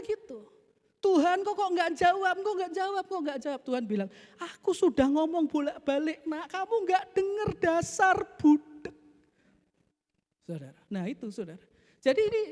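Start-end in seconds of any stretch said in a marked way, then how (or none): 1.0-3.6 high-pitched, repetitive whine of complaint; mock impatient grumbling; complaining. Believer complaining to God. 4.4-9.0 high-pitched acted telling-off; mock fed-up parent; exasperated scolding. God scolds like the angry wife.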